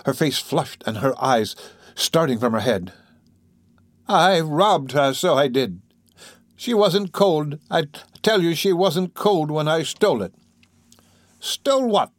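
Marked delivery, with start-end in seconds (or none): 4.1-10.3 put-on slow, higher-pitched, agitated old woman; fierce confession. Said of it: "jumping fiercely up". 11.4-12.1 much higher-pitched startled question; crying out. Acted. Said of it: "cried the matron".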